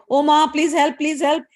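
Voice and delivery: high, loud begging for help; frightened plea. Acted. Scared Devatas begging the goddess for help, high and frightened. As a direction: cry out to mother in fear.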